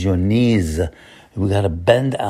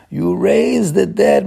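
fervent; 8 semitones higher, slower than usual. Acted. Repeats it with rising fervor.

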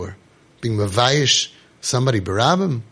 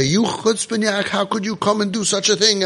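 higher-pitched outraged rebuke; mock indignant scolding; 5 semitones higher than usual. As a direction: scold as an imagined indignant adult. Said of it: "You think you're gonna say".

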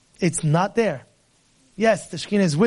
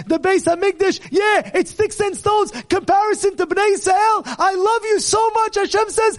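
fiery preaching; 6 semitones higher than usual. Acted. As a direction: preach it with full passion. Preaching at full force.

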